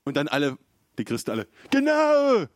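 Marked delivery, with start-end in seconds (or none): 1.7-2.5 very high, loud gloating cheer with a cackle; mock cheering crowd. Christians gloating over him, hammed-up high and loud. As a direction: ham up the smug believers cheering.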